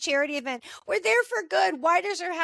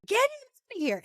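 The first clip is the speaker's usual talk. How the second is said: angry order; 10 semitones higher than usual. Retold or imitated. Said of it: "And Charles is gonna".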